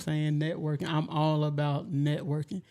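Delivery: talking around a grill in the mouth; slurred through a teeth grill; wearing teeth grill. Real, not acted. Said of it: "she really cannot talk with them grills in her mouth".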